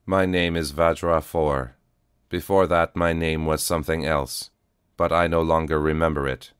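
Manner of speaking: even, steady robotic calm; a worn cyborg, calm and level; flat cyborg voice. Acted. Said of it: "came a flat voice".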